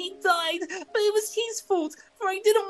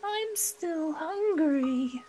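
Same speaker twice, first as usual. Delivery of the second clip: whimper; much slower than usual. Acted. Puppet whimpering to his father for more food. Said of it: "began to whimper".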